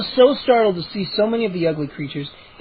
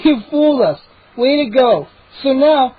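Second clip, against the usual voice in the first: higher, louder, strained friendliness; nervous forced cheer; 5 semitones higher, 4 dB louder than usual. Acted. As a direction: try to sound casual while scared. Narrator pleading with gnomes.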